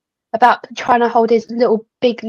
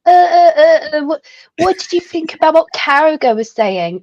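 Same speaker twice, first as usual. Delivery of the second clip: stammering journalist; 4 semitones higher than usual. Retold or imitated.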